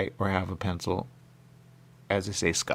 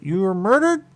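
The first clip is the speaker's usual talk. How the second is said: high, louder voice of someone else; voiced questioner; 11 semitones higher, 7 dB louder than usual. Quoting somebody who finally answered, in a high voice. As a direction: put on another person's high voice.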